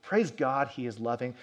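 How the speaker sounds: ordinary delivery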